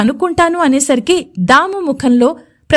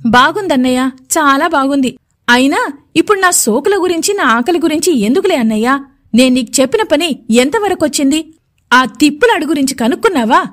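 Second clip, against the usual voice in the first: taunting. Acted. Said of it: "అంటూ దెప్పుతూ ఎదురు ప్రశ్నిస్తుంది".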